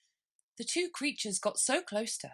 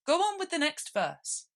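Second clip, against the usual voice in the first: hasty Gryphon; 9 semitones higher, 3 dB louder than usual. Acted. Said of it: "said the Gryphon hastily".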